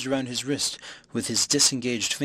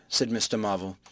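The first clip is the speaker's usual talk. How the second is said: plain reading voice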